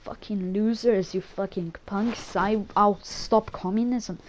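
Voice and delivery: lightly put-on American accent; half-hearted American soldier impression; Frank Woods, rough American attempt. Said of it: "that's American enough".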